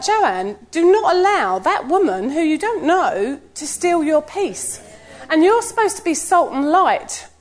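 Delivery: gently stern talking-to at the gym; mock self-scolding. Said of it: "So I'm talking to myself".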